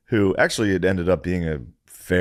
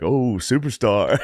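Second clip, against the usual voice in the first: mocking superstar; 3 semitones higher, slower than usual. Nate mocking him as superstar.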